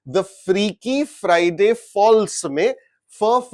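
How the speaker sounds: very slow, each F sound drawn out; slow demo. Shown as a demonstration. Teacher sounding out the alliteration, very slowly. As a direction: spell out the repeated F slowly for the class. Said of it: "फ की वजह से इन तीनों को अलिटरेटिव".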